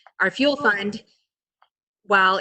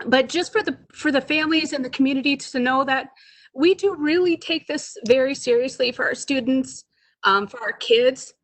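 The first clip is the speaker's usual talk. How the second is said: emotional; 5 semitones higher than usual. Real, not acted. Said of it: "I get emotional".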